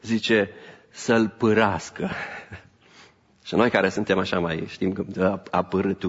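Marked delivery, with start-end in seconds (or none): 0.9-2.1 să-l pârască drawn out slowly, savoured; preacher relishing the Romanian word for his congregation, slow and savoured. Shown as a demonstration. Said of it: "Îmi place traducerea românească".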